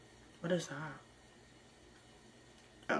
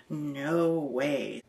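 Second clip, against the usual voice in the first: whispered no way, taken aback; whispered disbelief. Real, not acted. Reacting to a stranger's proposal, whispered no way. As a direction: breathe it out in disbelief.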